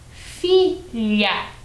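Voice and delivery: "filha" split as FI, LHA, with palatal LH; LH sound. Shown as a demonstration. Teacher shows fila turned into a new word, LH sound. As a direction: space out "filha", second syllable like Italian glia. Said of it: "agora eu transformei a palavra".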